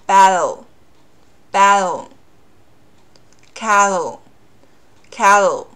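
slow voiced-t demo; flapped t. Shown as a demonstration. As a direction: voice the t, tongue held up. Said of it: "稍微的浊化一点".

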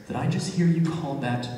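low, soft, measured questioning; acted boss quietly confronting an employee; stern manager.

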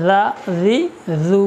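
"জা, জি, জু" with tongue tip between the teeth; voiced th for the "জ" in "জা, জি, জু"; tongue-out dhal. Shown as a demonstration. Teacher showing students the true articulation point, tongue-out "জা, জি, জু". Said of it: "এর যে মূল মাখরাজ".

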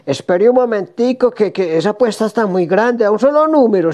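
reacción aguda y apurada; empleado alarmado. Acted. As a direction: frena al cliente con alarma, muy agudo. Empleado alarmado por la apuesta. (empleado sobresaltado por la apuesta)

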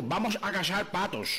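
slow, drawn-out gringo Spanish; the American buddy slowly mangling Spanish; American speaking Spanish. Acted. American friend proposes duck hunting, in slow gringo Spanish. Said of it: "Un día el americano le dijo".

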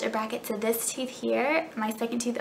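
pulling lip down to show teeth; speaking around a fingertip. Real, not acted. Seen 0: finger on lower lip pulling it down to show tooth.

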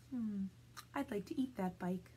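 softly voiced storybook goat; goat's musing thought. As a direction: muse quietly as the goat.

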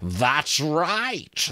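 high creaking skull voice; mocking talking skull. A narrator's reading. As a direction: creak like dry branches in the wind.

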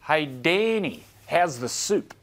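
slow, drawn-out coach voice; Wayne Bennett impression. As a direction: draw out Danny slowly. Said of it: "He goes".

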